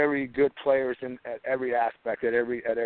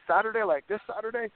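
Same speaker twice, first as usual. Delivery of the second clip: disbelief; 8 semitones higher than usual. Retold or imitated. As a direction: pitch jumps high in disbelief. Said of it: "I said".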